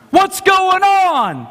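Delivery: high, loud, slow baffled question; mock churchgoer baffled in plain church; mock bewildered. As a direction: sound completely lost.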